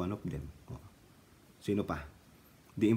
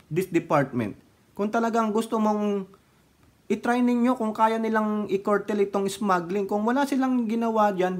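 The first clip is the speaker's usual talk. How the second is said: mas mataas na boses, nag-iinit sa inis; inis na pagrereklamo; 8 semitones higher than usual. Real, not acted. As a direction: ibuhos ang inis kay Villar, pataas ang tono. Ranting at Villar, worked up. (galit na komentaryo kay Villar)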